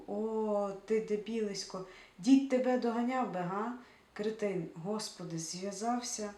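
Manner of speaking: loud, contemptuous scolding; scornful insults. Acted. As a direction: berate him as an idiot. Seva insults Grisha.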